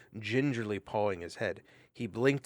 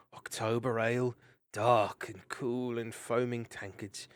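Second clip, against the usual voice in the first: dreamy musing. Acted. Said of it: "began talking aloud to himself".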